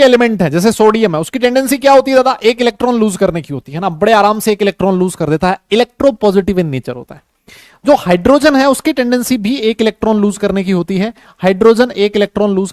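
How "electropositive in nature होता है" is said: slow dictation. Shown as a demonstration. Teacher dictating a term.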